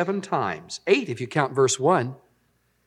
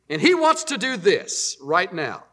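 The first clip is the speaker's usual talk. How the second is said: loud self-talk. Acted. Pastor reassuring himself about God, emphatic self-talk. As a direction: insist on it to yourself. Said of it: "I say it loud so I'll be sure and hear".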